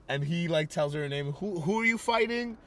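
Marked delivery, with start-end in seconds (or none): 1.3-2.6 put-on high girlish kid voice; mimicking a curious eight-year-old; little girl voice. Retelling the girl quizzing the fighter, high and girlish. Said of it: "who comes up ... eight years old".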